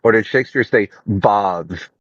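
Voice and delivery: bath with a long English ah, like bahth; English accent. Shown as a demonstration. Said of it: "like an English bloke".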